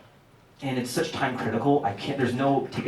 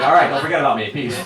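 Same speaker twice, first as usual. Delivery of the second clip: casual Jesus; 3 semitones higher, 9 dB louder, faster than usual. Retold or imitated. Jesus voiced signing off.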